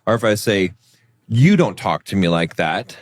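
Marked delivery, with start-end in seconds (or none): 1.3-2.9 a mild threat, tune rising at the end; threatening demand. Shown as a demonstration. Husband to wife, a mildly threatening rebuke. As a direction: warn them off, but it comes out weak. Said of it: "it comes across as weaker".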